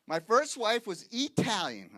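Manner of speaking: "Italian" with a punched, long EE opening; Italian said as Eat-alian. Shown as a demonstration. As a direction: stretch the start of "Italian" into "eat". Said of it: "I say eat because".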